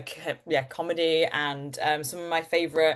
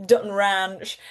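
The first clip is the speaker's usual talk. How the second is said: drawled Texas accent; slower than usual. Shown as a demonstration. Fan immersed in the world of Yellowstone, Texas accent. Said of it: "a Texas accent or what I think is a Texas accent".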